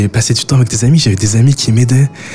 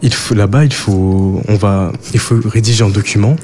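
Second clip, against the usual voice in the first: talking with mouth full; words round a bite of crumble; chewing while talking. Real, not acted. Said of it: "on ne parle pas la bouche pleine".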